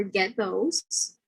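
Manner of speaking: "get those" with the T made on the teeth; tongue on the teeth for the T in "get"; dental T. Shown as a demonstration. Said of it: "becomes dental plosive before a dental consonant".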